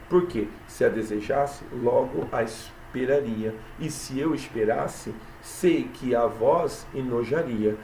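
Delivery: measured verse recitation; poem reading. Acted. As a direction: recite the lines steadily, unhurried. (leitura pausada de poema)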